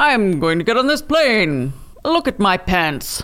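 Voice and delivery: put-on old-timey mid-Atlantic accent. Imagine a historical figure getting on the plane, as Teddy Roosevelt in a mid-Atlantic accent. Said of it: "you can just see Teddy Roosevelt being like".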